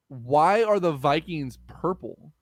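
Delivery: slow, drawn-out question; slow riddle setup. Shown as a demonstration. Host poses a trivia riddle to Greg, slow and deliberate. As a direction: pose the riddle slowly.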